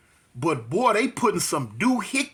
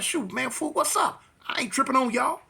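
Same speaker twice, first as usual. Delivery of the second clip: higher, tossed-off street challenge; retold street taunt; 7 semitones higher than usual. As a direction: brush off the gang like you're not scared. Acted street confrontation.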